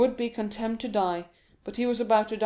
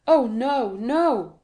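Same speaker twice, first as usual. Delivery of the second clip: loud, higher protest of denial; cried out; 3 semitones higher, 6 dB louder, much slower than usual. Acted. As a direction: cry out in alarm to reassure him. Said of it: "cried Dantès".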